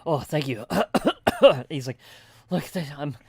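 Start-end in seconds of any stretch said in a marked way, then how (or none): 0.0-1.7 winded relief. Acted. Winded farmer thanking a traveler for water, relieved and coughing. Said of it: "drinks his water real quick". 2.5-3.2 lightly voiced farmer, a bit louder and halting; shaken young farmer. Farmer telling travelers about soldiers, lightly voiced hesitant character. Game master plays winded farmer.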